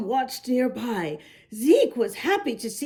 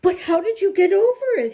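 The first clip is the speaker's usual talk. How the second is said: fast, higher, louder eager rush; eager question; 6 semitones higher, 4 dB louder, much faster than usual. A narrator's reading. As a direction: blurt it out, suddenly hopeful. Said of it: "Zeke perked up".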